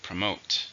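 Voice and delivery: "Promote" with MOTE stressed; stress on second syllable. Shown as a demonstration. Teacher models the verb for learners, "Promote" stressed on the second syllable. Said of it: "Stress on the second".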